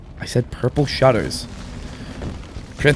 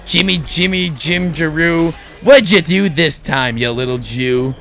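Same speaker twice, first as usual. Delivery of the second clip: secretary voice; 2 semitones higher than usual. Acted. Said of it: "the secretary's like".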